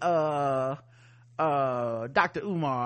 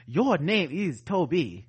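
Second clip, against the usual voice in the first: slow, stern naming order; slow commanding master; slower than usual. Pretend. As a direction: dictate the name coldly. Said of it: "So are they gonna be like".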